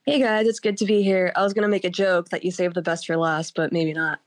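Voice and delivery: hoarse voice from a cold; sick voice. Real, not acted. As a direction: talk through a sore throat. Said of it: "I've been sick all week".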